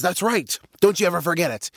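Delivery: lightly voiced swaggering lion; smug lion. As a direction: crow it like a self-satisfied king. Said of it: "He says".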